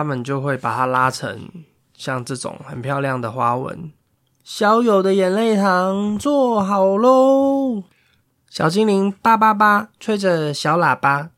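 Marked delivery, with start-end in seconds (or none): 4.4-7.8 high, slow, sing-song fairy announcing; bright little sprite calling out; cheery fairy voice. Acted. Fairy announces candy is ready.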